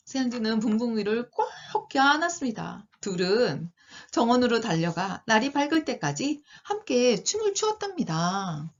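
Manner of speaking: put-on lilting storybook narration for young listeners; children's storytelling. A narrator's reading. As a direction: read it like a picture book.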